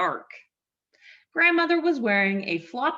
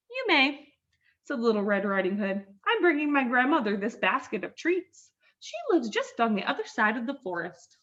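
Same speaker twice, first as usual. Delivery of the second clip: put-on little girl voice; 3 semitones higher than usual. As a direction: chirp it like a young girl. Red answers the wolf.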